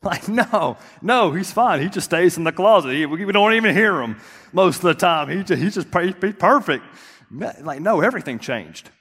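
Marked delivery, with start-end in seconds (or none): 0.0-6.8 mock sarcasm. Sarcastic mock answer about baby.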